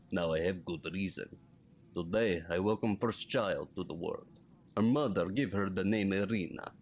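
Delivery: put-on light Russian accent reading a diary. Gamer reading the old man's journal aloud, lightly Russian accented. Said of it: "I felt it necessary to do the Russian accent when reading this".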